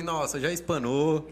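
racing through his fears as they came; retold nervous thoughts. Teacher retells his panic on arriving to the class, mildly anxious. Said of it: "Tudo isso passou na minha cabeça".

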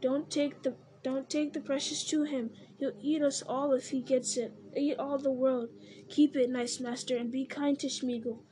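Gollum pleading. Acted. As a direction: beg and fawn, anxious. Gollum begging Frodo.

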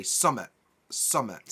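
summit for something, said sum-mit; Yorkshire dialect. Shown as a demonstration. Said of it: "We would say summit".

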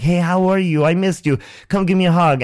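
high, bubbly imitation of an overeager roommate; gushing roommate. Roommate rushing up at two in the morning, high and gushing. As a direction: squeal it like a clingy friend at night.

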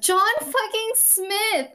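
high, slow, stunned cry of the name; high, drawn-out gasp of outrage; shocked exclamation. Real, not acted. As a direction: blurt it out in disbelief. Shocked reveal of John Smith.

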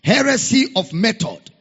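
forceful, punched quotation from the pulpit; emphatic preaching. Real, not acted. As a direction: drive each phrase home to the congregation. Preacher repeats quote with force.

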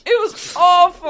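slow, loud drawn-out "awful"; emphatic disgust. Real, not acted. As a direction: drag out your disgust. Arguing over Matt Damon scene.

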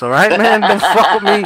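a light Sopranos-style threat, laughing; half-joking alpha male warning; mock mobster tough guy. After binge-watching The Sopranos, mock tough-guy warning. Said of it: "I'm in that fucking alpha male mode".

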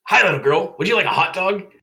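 high, loud, chirpy vendor voice; very cheerful vendor. A narrator's reading. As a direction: greet a customer with sing-out cheer. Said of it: "said in a cheerful voice".

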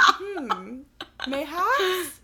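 playful mock British, high and loud; British accent. Teasing a friend about their accent, mock British. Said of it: "when you do a British accent".

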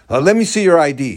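lightly voiced gruff sheriff, quick; mild gruff demand, hurried; a hint of a gruff sheriff. Sheriff demanding the hiker's ID, mild gruff voice. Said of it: "he said in a gruff voice".

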